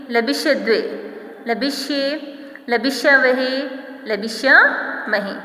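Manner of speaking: sing-song rote drill of Sanskrit forms; rhythmic recitation. Shown as a demonstration. Teacher leading the class through verb forms, in a rhythmic chant. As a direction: chant each form with a rising lilt, falling on every third.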